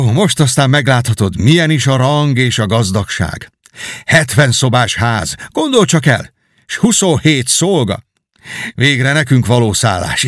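bubbling over with homecoming joy; eager Miles. Acted. Knight showing the king his home village, lightly voiced eager.

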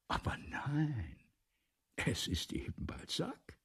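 whispered aside. Acted. Aside among the listeners.

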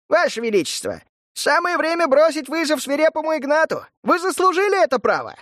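high, taunting, sing-song jeer; mocking. Kunitsa taunts from the crowd, urging the emperor on mockingly. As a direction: goad the brute with a sneer. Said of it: "насмешливый голос куницы".

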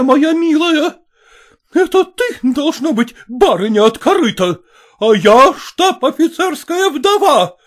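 mock her rival angrily; scornful fury. A narrator's reading. Mother boasts of her husband to the rival, scornful.

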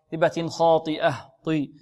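"خاطئة" with thick emphatic t; heavy taa. Shown as a demonstration. Teacher drills the heavy letter, "طي" with emphatic t. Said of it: "مفخمة".

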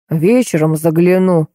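ordinary delivery, nothing marked

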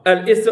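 "الاست-" split as al-ist, cut short; hamza wrongly sounded. Shown as a demonstration. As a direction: say "الاست-" with an audible hamza, then break off. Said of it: "هاد الهمزة ما كايناش هنا". («الاست-» بقطع الهمزة: أَلْ إِست)

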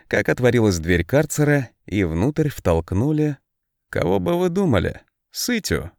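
ordinary delivery

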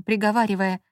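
ordinary delivery, nothing marked

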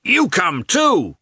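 high, loud and slow, leaning on you; peasant shouting. A narrator's reading. Peasant shouts to Lievin to join them, loud slow call. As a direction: bellow the invite across the bog. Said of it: "shouted a peasant to Lievin".

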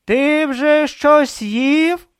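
high, slow stern priest voice; stern question. Acted. Vorbis sternly questioning Brutha about food. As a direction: press him sternly, word by word. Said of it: "суворо запитав він".

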